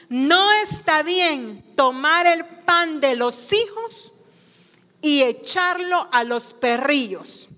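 slow, measured quotation; solemn, spaced-out reading; scripture reading. Acted. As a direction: read it out deliberately, phrase by phrase. Slowly reads Jesus's reply from scripture.

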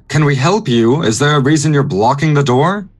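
half-yell at the people outside; calling through a door. Acted. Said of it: "I'm also gonna yell".

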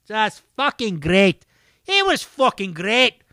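badly faked Scottish accent. Podcaster raving about a show, attempted Scottish accent. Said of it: "what was that, Scottish?".

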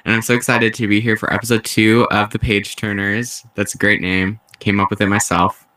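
under the weather after his vaccine shot; sick voice. Real, not acted. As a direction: talk like you're fighting off a bad flu. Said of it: "if I sound like I'm dying".

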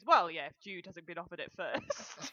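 Maggie Smith impression. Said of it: "and Maggie goes".

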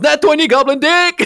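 loud, high sing-song cheer; excited goblin cheer. Retold or imitated. Player cheering his roll to the table, chanting. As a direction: chant it like a triumphant hype. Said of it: "he goes".

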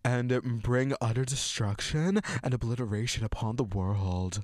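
lightly voiced drag queen reading aloud. Host reading the villains' plot to co-host, light drag queen voice. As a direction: read it out with a touch of drag queen theatre. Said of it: "I fucking love that voice".

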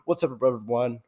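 giggling through the greeting; can't stop laughing mid-intro; hiccup giggles. Real, not acted. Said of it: "stop making me laugh".

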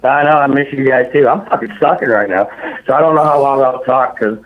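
pained, shallow breathing; talking through rib pain; cracked rib. Real, not acted. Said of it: "kinda hurts to breathe right now".

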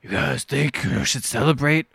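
slow, grim tough-guy impression; lightly drawled imitation of a brooding actor; Matthew McConaughey. Deflating a party over one dead dragon, slow grim drawl. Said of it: "Matthew McConaughey shows up. He's like".

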